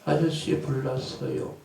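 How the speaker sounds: slow, calm and polite, as if there were no fire; mock polite report. Person politely reporting a fire to a neighbour, mock calm. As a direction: far too calm for an emergency. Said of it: "이래요?".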